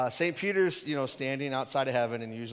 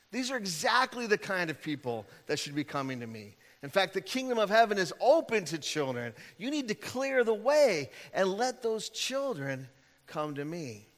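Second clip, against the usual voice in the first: indignant; 4 semitones higher than usual. Retold or imitated. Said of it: "Jesus was indignant".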